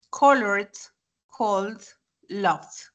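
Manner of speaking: Colored, cold, loved with the E of -ed silent; D endings. Shown as a demonstration. Teacher recaps Colored, cold, loved, D endings. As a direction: end Colored, cold, loved on D, no extra syllable. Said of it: "se suprime la E".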